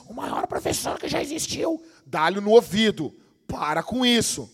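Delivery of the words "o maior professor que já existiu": mocking answer.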